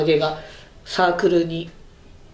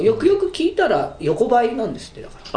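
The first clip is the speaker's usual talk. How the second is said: sounding pleased; 6 semitones higher than usual. Real, not acted. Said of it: "嬉しいような感じで言わはりますけど".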